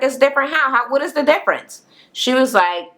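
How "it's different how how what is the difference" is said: higher, fast disbelieving challenge; incredulous demand. Retold or imitated. Friend challenging her claim, incredulous and higher. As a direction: push back in disbelief, voice jumping up.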